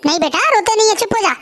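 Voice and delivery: put-on rock the baby with your voice; soothing baby. Mother soothing a crying baby.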